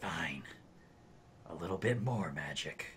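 low, menacing villain voice with a threatening tone. Voicing a spellcaster who glares after being hit: menacing villain. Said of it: "glares menacing at you, and he goes".

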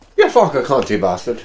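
put-on Irish or Scottish accent. Reacting during a game, put-on irish or scottish accent. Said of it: "what accent was that?".

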